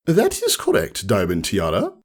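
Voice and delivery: warm approval. Acted. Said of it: "smiled warmly".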